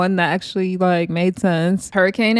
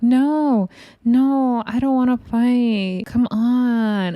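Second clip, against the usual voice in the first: mock-meek refusal, pitched higher; passive, calm; 4 semitones higher, much slower than usual. Titi declining a fight with Daisy, mock-passive. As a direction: imitate someone gently backing out. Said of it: "T T was the most passive, calm".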